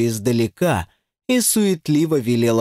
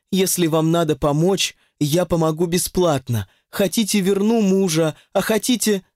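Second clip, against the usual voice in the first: honeyed; 5 semitones higher than usual. Acted. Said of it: "Голос ведьмы сделался медовым".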